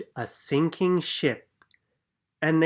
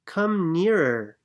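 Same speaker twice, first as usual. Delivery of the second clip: little alien voice; 5 semitones higher, 4 dB louder than usual. Acted. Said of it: "said a little alien".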